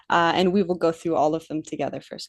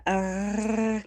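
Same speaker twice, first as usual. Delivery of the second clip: throaty gargling rasp; gargled French R; 4 dB quieter than usual. Shown as a demonstration. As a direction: gargle it like mouthwash. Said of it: "I will do it with you ... Ready?".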